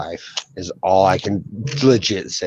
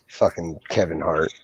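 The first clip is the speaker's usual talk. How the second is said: whispered aside; 6 semitones lower, 6 dB quieter than usual. Real, not acted. Muttered aside.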